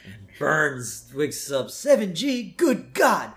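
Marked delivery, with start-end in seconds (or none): 1.7-3.3 put-on high, startled old-man boss; a cranky old tycoon alarmed. Burns voiced in retold scene.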